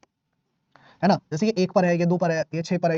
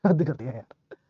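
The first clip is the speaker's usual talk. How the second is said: laughing; 5 semitones lower, slower than usual. Real, not acted. Teacher laughing at his own joke.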